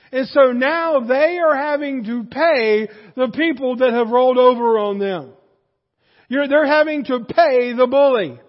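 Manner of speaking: building preaching. Real, not acted.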